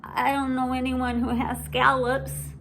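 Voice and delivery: high, hesitant little-sister voice; unsure and a bit shy; a small sister holding on to what she likes; timid little sister. Acted. Ivy worried.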